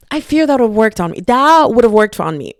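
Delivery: gushing. Real, not acted. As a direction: gush about it, a bit breathless. Gushing after the romantic line.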